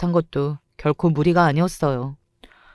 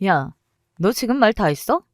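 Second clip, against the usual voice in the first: higher pitched indignant challenge; indignant anger; 3 semitones higher than usual. Acted. Rival challenging the mother indignantly after being insulted. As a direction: demand she take it back.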